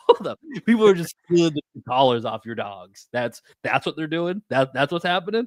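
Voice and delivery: high-pitched mock disbelief; incredulous. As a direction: question it in rising disbelief. Incredulous retort to dog owner's excuse.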